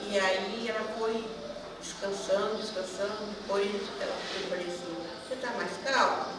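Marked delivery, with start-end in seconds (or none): 5.3-6.3 soft, caring question; gentle checking-in. Retold or imitated. Helper checking on a woman who was crying, gently caring. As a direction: ask softly and tenderly.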